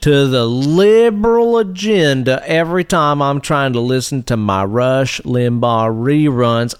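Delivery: lightly voiced folksy conservative rant; redneck conservative. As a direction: grumble like a cranky rural right-winger. Plays redneck conservative character.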